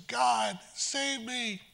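high, hushed plea; desperate prayer. Retold or imitated. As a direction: beg God softly, voice rising. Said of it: "she says".

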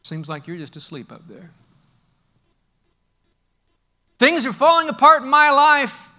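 a struggling believer feeling ignored by God; despairing prayer. Acted. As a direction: confess despair to God, worn out. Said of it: "the natural response at one point is gonna be".

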